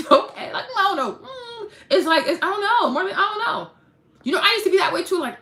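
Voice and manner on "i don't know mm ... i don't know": high, whiny mock hesitation; hammed-up unsure whine; pitched-up fretful dithering. Mocking a hesitant doubter.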